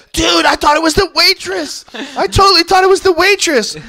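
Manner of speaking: put-on high, loud drunken protest; panicked drunk friend. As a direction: plead it like a drunk caught out. Drunk friend explains the kiss.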